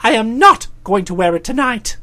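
firm refusal leaning on "not"; firm correction. A narrator's reading. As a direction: stress on "not". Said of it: "I corrected this view".

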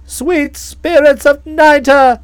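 slow, drawn-out exclamation; a lightly voiced passionate outcry; aunt despairing over the sale, slow and emphatic; passionate cry. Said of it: "cried the old relative passionately".

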